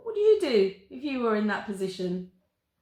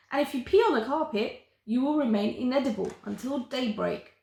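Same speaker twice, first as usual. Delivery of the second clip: gleeful reading aloud. Acted. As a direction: read the rules with relish. Charlotte reads the book aloud.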